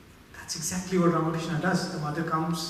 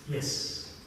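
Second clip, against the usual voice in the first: gently voiced mother; 2 semitones lower, 3 dB quieter than usual. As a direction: lightly voice a mother's quiet, smiling admission. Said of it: "The mother smiles and says".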